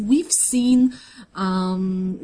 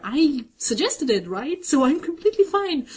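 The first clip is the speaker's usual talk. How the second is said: covering a freak-out; 4 semitones higher than usual. Retold or imitated. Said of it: "very guy, like, freak out".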